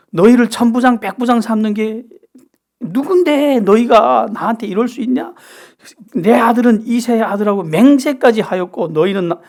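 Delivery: high-pitched, scolding rant at his own men; angry royal tirade. Retold or imitated. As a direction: act out a king's indignant outburst, building in volume. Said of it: "신경질을 부리는데 화를, 화를 내는데 이렇게 화를 내요".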